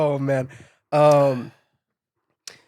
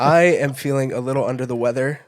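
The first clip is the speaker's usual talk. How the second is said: stuffy, congested cold voice. Real, not acted. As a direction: talk through a blocked nose. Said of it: "Do you not hear my voice right now?".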